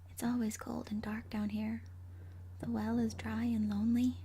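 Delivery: eerie whisper. A narrator's reading. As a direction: whisper the refrain like a ghost. Ghost refrain repeated.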